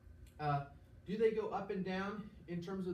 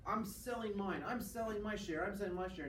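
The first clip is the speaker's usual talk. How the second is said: higher, hurried mock panic; panicky selling; 5 semitones higher than usual. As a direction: blurt it out like a spooked investor.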